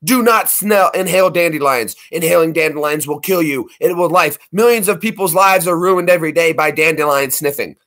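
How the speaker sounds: a hint of a stern public warning; lightly acted warning sign. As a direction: read it out like a mock health warning. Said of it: "sign from the Surgeon General, and it says".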